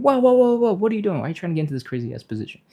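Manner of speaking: high, loud panicked alarm, then a rushed fast end; a hammed-up shriek of panic from your own muscles; body freaking out. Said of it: "our body is freaking out and going".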